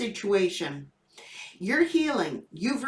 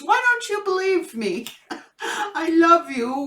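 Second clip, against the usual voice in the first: high pleading puppy voice, laughing through it; 5 semitones higher than usual. Retold or imitated. Owner voicing her scolded puppy, high laughing plea. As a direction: beg like a puppy caught out, giggling. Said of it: "He goes".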